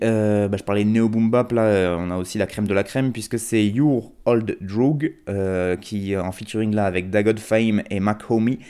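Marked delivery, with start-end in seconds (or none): 3.7-5.1 self-mocked American accent. Real, not acted. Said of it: "me ridiculiser avec mon accent américain dégueulasse".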